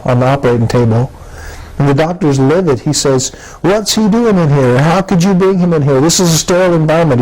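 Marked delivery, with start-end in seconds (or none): 3.6-7.2 higher-pitched mock yell at the nurse; imitating a scared doctor raising his voice, pitched up; retold scream. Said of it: "He's screaming at the nurse".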